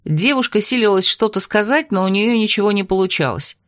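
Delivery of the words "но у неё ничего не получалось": usual speaking voice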